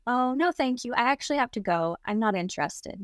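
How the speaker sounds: politely bland, as if clueless; bland refusal. Retold or imitated. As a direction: play dumb, decline without any fear. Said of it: "really bland".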